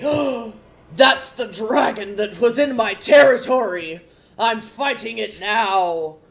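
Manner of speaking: high, loud eager shout; excited battle cry. Acted. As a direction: charge in with a rallying cry. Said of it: "he's gonna say".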